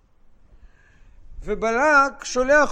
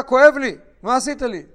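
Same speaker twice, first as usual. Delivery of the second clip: donkey crying out; 4 semitones higher, 9 dB louder than usual. Acted.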